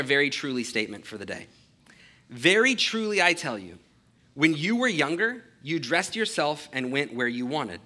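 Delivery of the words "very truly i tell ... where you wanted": measured, solemn Bible reading; a steady public reading of scripture. Acted. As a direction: read the passage clearly to the congregation. Reads verses eighteen and nineteen.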